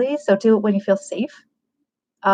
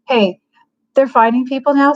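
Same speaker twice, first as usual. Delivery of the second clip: louder, mildly defensive warning; defensive, raised-voice heads-up; 4 semitones higher, 4 dB louder than usual. Shown as a demonstration. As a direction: warn them, getting a bit defensive. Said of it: "now that sounded defensive".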